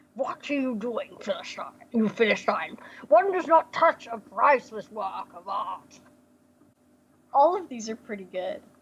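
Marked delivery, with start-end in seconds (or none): 0.2-6.0 chewy character voice, as if chewing gum. Narrator voicing Colonel Firesnuff on seeing the player, Colonel Firesnuff gum-chewing voice. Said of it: "I have to act like I'm kind of like chewing gum for a second before I can do this voice".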